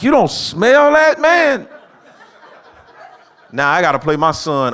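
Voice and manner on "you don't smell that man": high, loud and slow, drawn-out disbelief; exasperated yell. Retold or imitated. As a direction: shout it at him across the couch, eyes watering. Dad choking during video game.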